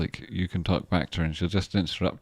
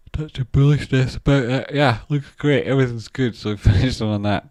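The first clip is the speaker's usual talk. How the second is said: loud, higher, pleased; excited; 7 semitones higher, 12 dB louder than usual. Real, not acted. Trader cheering the chart finish, loud and high. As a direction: burst out happily, much louder.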